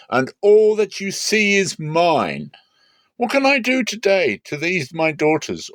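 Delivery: high, loud, insistent claim; Laban, possessive. A narrator's reading. Laban answers Jacob, high and insistent. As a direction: Laban stakes his claim, pressing and proud.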